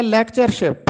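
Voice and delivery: लेक्चरशिप said as "LEK-char-ship", three syllables; teacher's model of लेक्चरशिप, "lek-char-ship"; correct pronunciation. Shown as a demonstration. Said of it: "दुरुस्त तलफ़ुज़ है".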